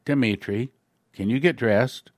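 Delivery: humbled colonel politely asking a prisoner; humble voice. Retold or imitated. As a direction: ask meekly, almost apologetic. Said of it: "with a humble voice".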